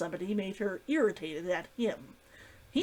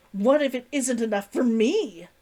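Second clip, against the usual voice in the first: angry; 2 semitones higher, 6 dB louder than usual. Acted. Angry retort in argument.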